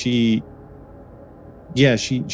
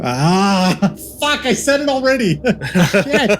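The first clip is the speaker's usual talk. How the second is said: giggling through a slip-up; high giggly curse; laughing; 11 semitones higher, 4 dB louder than usual. Real, not acted. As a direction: laugh it off, embarrassed.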